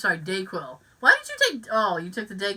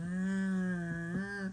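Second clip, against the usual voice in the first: squeegee noise; 3 semitones lower, 11 dB quieter than usual. Retold or imitated. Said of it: "you just go".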